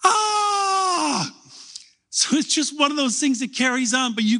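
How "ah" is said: high, mock-terrified group-style "Ah!"; piercing pretend scream of fear; frightened shout. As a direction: yelp in fake fright like kids in a play. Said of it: "so they could go".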